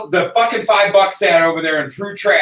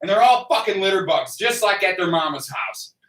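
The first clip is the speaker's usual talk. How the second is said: retold sarcastic rant; 3 semitones higher than usual. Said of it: "I was like".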